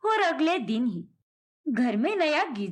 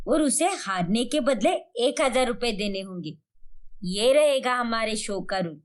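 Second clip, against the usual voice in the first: lightly voiced scheming elder, lower pitch; confident mother-in-law; 3 semitones lower than usual. Mother-in-law tells daughter-in-law her game plan, lightly voiced, confident. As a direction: lay out the plan as a sure-of-herself mother-in-law, lightly played.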